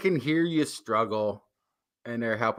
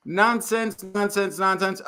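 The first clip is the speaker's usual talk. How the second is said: mock gibberish; 4 semitones higher than usual. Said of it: "So it's like".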